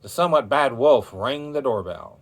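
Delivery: plain reading voice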